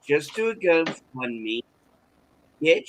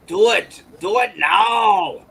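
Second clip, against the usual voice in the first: higher, louder, slow commanding shout; movie hero shout; 7 semitones higher, 8 dB louder, slower than usual. Retold or imitated. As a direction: bark the order like an action star.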